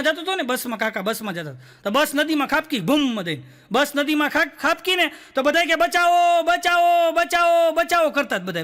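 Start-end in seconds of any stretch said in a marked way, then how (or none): 5.7-8.1 high, louder mock cries for help; crying for help. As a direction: call for rescue over and over, hammed up. Passengers crying for help in river. (નાટકીય રીતે મદદ માટે બૂમો)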